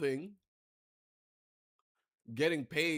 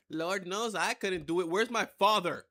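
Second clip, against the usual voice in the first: higher, louder mock outburst; exasperated protest; 6 semitones higher, 6 dB louder than usual. Player stuck with game mom demanding dad, exasperated outburst. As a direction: cry out in playful exasperation.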